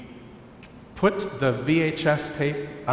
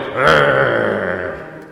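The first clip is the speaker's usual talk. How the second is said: villain growl; 3 semitones lower, 5 dB louder than usual. Shown as a demonstration. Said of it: "you can go like".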